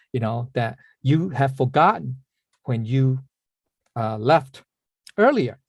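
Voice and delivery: lightly voiced solemn pronouncement, broken by pauses; Guan Ying. Monk posing as a deity to the rich man, lightly voiced pronouncement. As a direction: spell it out in measured chunks. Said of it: "way of imitating Guan Ying's voice".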